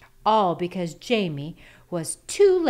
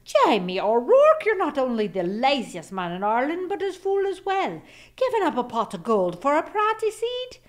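loud, higher scolding that climbs; furious wife; 7 semitones higher, 6 dB louder than usual. A narrator's reading. Wife furious at husband for trading gold for a seed, loud. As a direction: tear into him like an outraged wife. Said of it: "she was furious".

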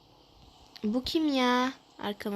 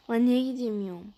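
louder exasperated question; frustrated outburst; 4 dB louder than usual. Real, not acted. Stuck player snaps at the game, frustrated. Character won't move.

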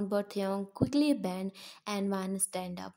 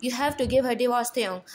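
angry; 2 semitones higher, 4 dB louder, much faster than usual. Acted. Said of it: "Dad breathing fast".

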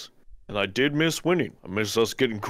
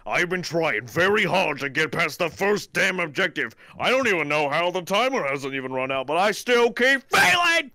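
frustrated rant; 5 semitones higher than usual. Real, not acted. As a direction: vent like a gamer about to rage quit. Rage before quitting game.

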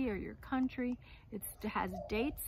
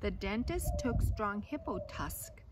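lively storybook reading voice; reading to children; slower than usual. A narrator's reading. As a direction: read the tale aloud to a class. Reads picture book aloud.

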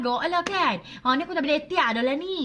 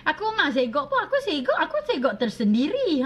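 self praise; 2 semitones higher than usual. Shown as a demonstration. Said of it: "Kita kena kata".

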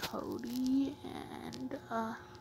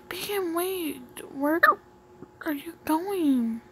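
higher voice calling out; calling after; 7 semitones higher, 6 dB louder, slower than usual. Acted. Character calling after Beacon as he leaves, high. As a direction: call after him, pitched up.

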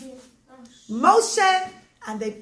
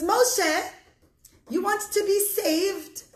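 higher, smiling greeting; big smile; 5 semitones higher, slower than usual. Acted. Boy comes out to greet Moshe, smiling. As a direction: offer good news with a smile. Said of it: "greets Moshe with a big smile".

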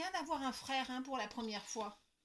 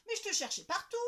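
loud, higher mock scold; dad's light telling-off; mild scolding; 7 semitones higher, 9 dB louder, faster than usual. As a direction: gently scold the lost girl. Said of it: "gronde papa".

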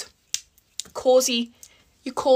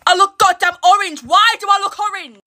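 shocked; 7 semitones higher, 6 dB louder than usual. Real, not acted. Shocked at her tan.

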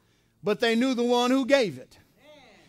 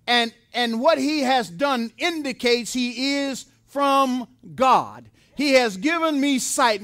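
preaching; 3 dB louder than usual. Acted. Preacher pressing the point to his congregation, fervent.

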